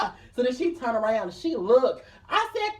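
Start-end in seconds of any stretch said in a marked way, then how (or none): 0.0-0.1 yelling her name. Retold or imitated. Screaming his sister's name.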